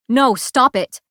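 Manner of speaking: loud, high frantic protest; panicked cry to stop him; desperate plea. A narrator's reading. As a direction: fight him with your voice. Struggling for the dagger.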